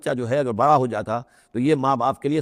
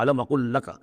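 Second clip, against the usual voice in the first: a touch of a reproachful teacher, lightly voiced; mildly chiding, as if to say told you so; understated rebuke with an emphatic question; pointed reproach; 2 semitones higher, faster than usual. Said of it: "ذرا داغ کے انداز میں کہا".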